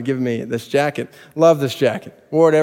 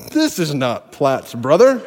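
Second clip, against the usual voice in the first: drawn out through a chuckle; slow laughing punchline; slower than usual. Retold or imitated. Bully sizing him up, slow and amused. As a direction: savor the putdown while laughing.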